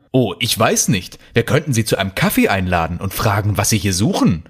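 mock-helpful suggestion; sarcastic. Markus answers his colleague's question about the intruders, sarcastic. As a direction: toss it out with understated sarcasm. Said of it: "antwortete Markus sarkastisch".

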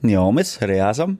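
name said backwards; backwards speech. Shown as a demonstration. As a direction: say the name reversed, letter by letter. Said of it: "Kannst du rückwärts reden, wie ich?".

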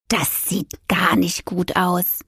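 slow, drawn-out cat assessment; unruffled cat character. Acted. Cat inspecting the witch's wound, slow and grave. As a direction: stretch each word, coolly concerned.

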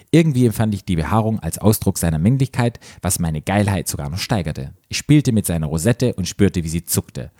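measured read-aloud narration; story narration. A narrator's reading. Host reading a story to co-host, measured narration.

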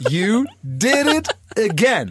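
drawn-out praise. Acted. Celebrity praising a friend backstage after the show, drawn out. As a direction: stretch each word of the congratulation.

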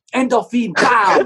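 high, punchy burst on "bam"; explosive hype. Acted. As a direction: announce the rush like an explosion. Acts out the endorphin kick. (begeisterter, lauter Ausbruch)

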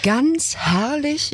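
high, slow, gushing; rapturous praise of the little town; enthusiastic. Real, not acted. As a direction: savour it with delight.

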